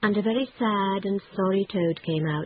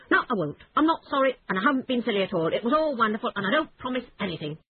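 rushing, stubborn, a touch higher; defiant rush; 5 semitones higher, faster than usual. Acted. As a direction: Toad refusing to back down, tumbling fast. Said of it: "said Toad suddenly".

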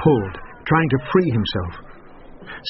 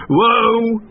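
louder, raised call to halt; calling whoa; 11 semitones higher, 5 dB louder than usual. A narrator's reading. Miller calling the donkey to stop, loud. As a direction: pull up the donkey. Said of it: "he said".

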